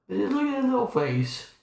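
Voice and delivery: high doting voice. Real, not acted. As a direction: gush over the little face. Cooing at kitten.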